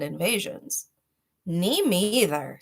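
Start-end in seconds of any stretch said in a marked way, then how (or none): 1.4-2.6 a slow, small mousy voice; tiny little voice. Acted. Mouse chiming in, a lightly voiced tiny voice. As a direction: shrink into a timid little mouse. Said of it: "said a tiny little voice".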